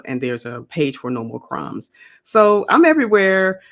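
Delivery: normal talking voice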